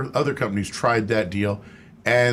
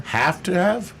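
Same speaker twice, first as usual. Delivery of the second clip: surprised echo; 8 semitones higher, slower than usual. Real, not acted. Echoing the caller's question doubtfully.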